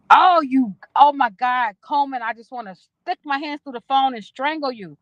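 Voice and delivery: high, loud burst easing in volume; playful outburst, pretending you could throttle them; mock exasperation. To a viewer who beat her to it, mock exasperation.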